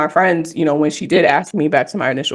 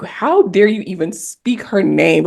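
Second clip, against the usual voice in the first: inner outrage; 4 semitones higher, slower than usual. Retold or imitated. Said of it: "that's how I felt".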